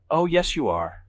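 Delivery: high, teasing sing-song. A narrator's reading. Evelyn contradicting him about being late, sing-song. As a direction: lilt it like a taunt. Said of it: "she says in sing-song".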